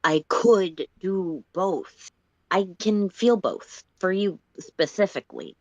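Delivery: slow, earnest and gentle; slow sincere confession. Acted. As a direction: open up to her carefully. Solix confesses his feelings.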